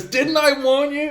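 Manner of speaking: very high, loud, stretched-out taunt; mock angry yell. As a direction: shout it after him in imitation. Retold parting shot yelled after rival.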